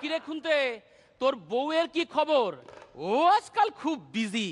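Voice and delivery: plain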